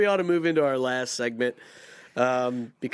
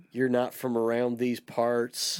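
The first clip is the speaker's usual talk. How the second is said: John Wayne drawl; slower than usual. Pretend. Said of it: "talking like John Wayne".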